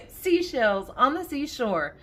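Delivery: amused, laugh in the voice. Real, not acted. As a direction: still giggling while getting words out. Tongue twister resumed while laughing.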